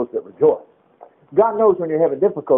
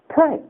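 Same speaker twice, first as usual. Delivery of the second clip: high, emphatic PRAY; stressed answer; 9 semitones higher than usual. Acted. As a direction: land the answer Pray with a lift. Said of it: "Let him what".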